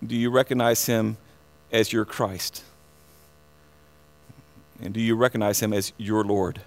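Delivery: soft, searching altar-call questions; hushed questions. Acted. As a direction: drop to a near-hush and ask it gently. Quiet intimate questioning after pause.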